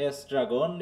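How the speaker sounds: এস্ট্রাগন opening on an "e" sound; careful ESTRAGON. Shown as a demonstration. Teacher confirming the students' answer, এস্ট্রাগন with initial "e". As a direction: say এস্ট্রাগন as es-tra-gon, carefully. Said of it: "এটা অনেকটা ই উচ্চারণ এ".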